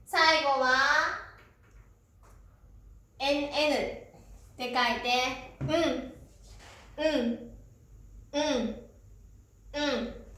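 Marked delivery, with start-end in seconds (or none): 5.6-10.2 うん modelled as one nasal N sound; teacher's isolated demo of うん, the final kana; syllabic N demo. Shown as a demonstration. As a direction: repeat うん as a lone hummed N, pausing between. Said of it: "ちょっと発音難しいです".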